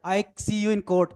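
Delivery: slow, deliberate threat; menacing. Shown as a demonstration. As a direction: spell out each word as a warning. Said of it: "दोनों के posture में अंतर आ गया ना". (धीमी धमकी)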